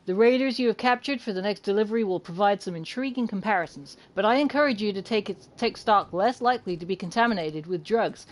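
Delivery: attempted American accent reading; British speaker trying an American accent. Shown as a demonstration. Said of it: "There you go, that was my attempt".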